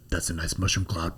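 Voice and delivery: deadpan William Forsythe. Retold or imitated. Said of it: "he'll look up and be like".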